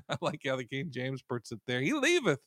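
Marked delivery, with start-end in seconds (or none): 1.8-2.4 amused. Real, not acted. Amused quote of King James.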